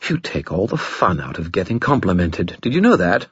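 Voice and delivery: a pouting spirit; clattering jaw cackling skull. Acted. Sulking skull.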